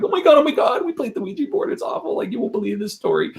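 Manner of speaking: put-on high, breathless panicked girls' voices; imitating scared girls. Retelling the frightened girls running up to them, high and panicked. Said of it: "they were like".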